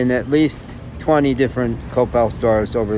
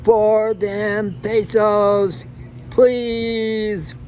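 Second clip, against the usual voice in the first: high, slow wail of four damn pesos please; mock hollering plea for pesos; hammed-up beggar's wail; 10 semitones higher, much slower than usual. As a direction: whine it out like a pitiful old beggar. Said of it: "just gonna start hollering".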